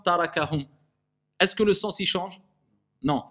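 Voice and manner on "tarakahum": tarakahum with every A the same; undifferentiated vowels in tarakahum; careless recitation. Shown as a demonstration. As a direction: say tarakahum evenly, without thinning ta or ka. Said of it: "voyez la différence?".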